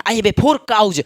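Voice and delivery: slow, deliberate model sentence; teacher modelling the plural sentence. Shown as a demonstration. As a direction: say it slowly word by word. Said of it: "मेरे साथ बनिए".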